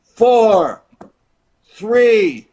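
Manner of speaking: high, loud ringside countdown; announcer countdown. Retold or imitated. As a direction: call each number out like a ring announcer. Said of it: "the announcer's going".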